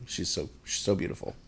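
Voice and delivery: breathy whisper of adoration. Real, not acted. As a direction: whisper it like she's sleeping nearby. Gushing over newborn baby.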